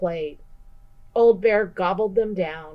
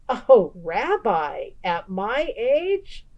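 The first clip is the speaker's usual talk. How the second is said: bashful; 3 semitones higher, slower than usual. Acted. Baba Brena blushes.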